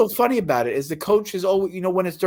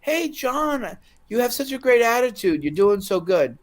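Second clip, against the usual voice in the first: 1 mimicking the boss; 3 semitones higher than usual. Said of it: "the guy that fired me told me".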